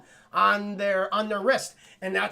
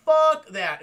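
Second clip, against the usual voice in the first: mock panic; 7 semitones higher, 8 dB louder than usual. Characters fleeing the aliens.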